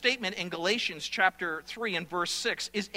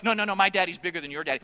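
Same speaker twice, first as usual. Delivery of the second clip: fast, insistent playground comeback; mock kid's fast retort; quick retort; much faster than usual. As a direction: rattle it off like a boy shouting back. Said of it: "the other boy goes".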